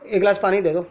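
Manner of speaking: busy and preoccupied, toss out the request; slightly hasty. Shown as a demonstration. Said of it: "थोड़ा उतावलापन है". (थोड़े उतावलेपन से)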